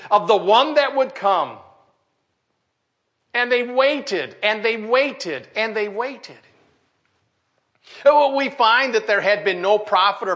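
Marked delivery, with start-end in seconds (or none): 3.3-6.4 slow repeats, each falling and fading; long-drawn waiting. Real, not acted. Preacher telling of people awaiting the Messiah, long-drawn. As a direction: draw out each repeat to stretch the wait.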